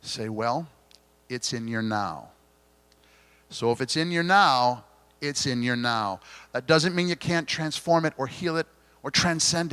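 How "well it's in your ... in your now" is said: gently. Retold or imitated. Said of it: "I had to very gently say".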